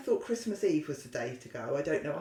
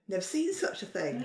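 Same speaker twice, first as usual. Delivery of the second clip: higher, mildly acted amazement; mock astonishment; 5 semitones higher than usual. Pony eyeing the jump, mock astonishment. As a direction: play at being astonished. Acts out pony's reaction to jump.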